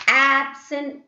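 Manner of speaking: "Absent" with AB punched high and loud; stress on first syllable. Shown as a demonstration. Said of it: "giving stress for the first syllable".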